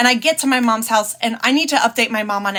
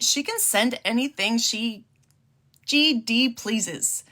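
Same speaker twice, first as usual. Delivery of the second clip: slow, softer, deliberate mom retort; defiant mom; 6 dB quieter, slower than usual. Retold or imitated. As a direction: drag out her defiant words slowly. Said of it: "And my mom said".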